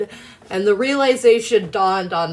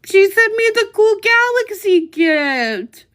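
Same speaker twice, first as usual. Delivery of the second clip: high, slow words through real tears; tearful; 13 semitones higher, 5 dB louder, slower than usual. Real, not acted. Streamer tearfully thanks a friend for a gift, crying. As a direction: choke it out, overwhelmed by the gift. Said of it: "Stop making fun of my crying".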